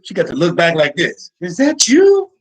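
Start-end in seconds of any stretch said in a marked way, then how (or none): 1.4-2.3 high loud shriek of disgust; mock disgusted shriek. Girl looking back disgusted.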